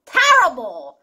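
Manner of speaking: terrible with a strong TER up front; first-syllable stress. Shown as a demonstration. Teacher contrasting it with terrific, terrible stressed on "TER". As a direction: hit the start of terrible, TER-ri-ble. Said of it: "앞에 강세가 있어요".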